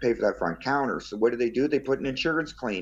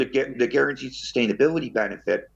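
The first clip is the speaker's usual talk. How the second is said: mouth full. Real, not acted. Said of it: "I'm eating almonds".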